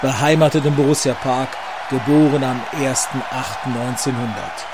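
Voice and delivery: big booming ring introduction; boxing ring announcer. Acted. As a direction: announce each fighter like a title bout. Boxing ring introduction over music.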